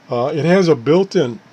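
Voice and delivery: hiccuping while talking; hiccups. Real, not acted. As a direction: talk through the hiccups. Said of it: "I get the hiccups".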